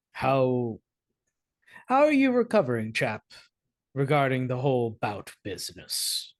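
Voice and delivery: a hint of an old-school gentleman checking on a chap; Atticus. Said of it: "I think Atticus will lean down".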